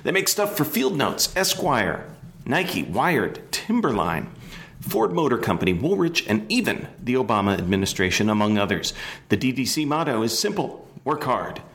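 inflected, upbeat radio host introduction. Real, not acted. Host introduces Aaron Draplin to listeners, radio voice. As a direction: sell each item with announcer-style inflection. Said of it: "introduction with the inflection".

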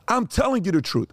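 put-on high, pleading boy's voice through tears; son in tears. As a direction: insist like a crying kid. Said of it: "you see the tears coming down".

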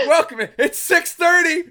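squeaky high, slow, laughing through it; high mock whiny voice. Host mocking a viewer about the time, high whiny laugh. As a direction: mimic a sarcastic viewer while cracking up.

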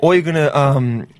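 halting, shaky grasp of an Australian accent; attempted Australian accent. Shown as a demonstration. Showing co-host the hard accent, tentative Australian. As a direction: feel your way through an Australian accent. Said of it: "It's such a hard accent to do".

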